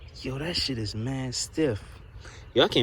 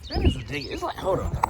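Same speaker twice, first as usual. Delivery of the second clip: high excited squeal; much faster than usual. Real, not acted.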